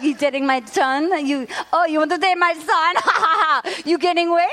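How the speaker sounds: hammed-up mom in faked Scottish; light mock Scottish, teasing an imitated mom's line; badly faked Scottish mother; bad Scottish accent. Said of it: "they all eventually go to Scottish".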